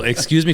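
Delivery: "Excuse me" high, with "me" lifted; asking for a repeat. Retold or imitated. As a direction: pitch "me" up like a question. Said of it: "to help somebody repeat something".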